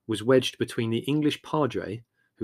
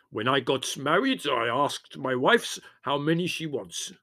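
put-on Greek accent; 4 semitones higher than usual. A narrator's reading. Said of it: "said Spiro in a loud voice".

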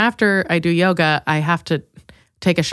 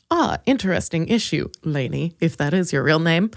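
mock therapist; 4 semitones lower, 3 dB quieter than usual. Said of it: "I'm gonna be my own therapist".

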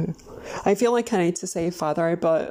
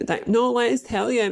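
put-on pitched-up eager kid voice; mock child voice, higher; kids pleading; 6 semitones higher than usual. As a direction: beg to be heard like a child. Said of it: "And we're like".

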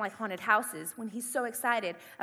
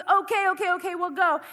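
loud, raised imitation of relenting; exasperated giving in; 6 semitones higher, 6 dB louder than usual. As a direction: give in hurriedly, mock exasperation. Boyfriend gives in to her pleading.

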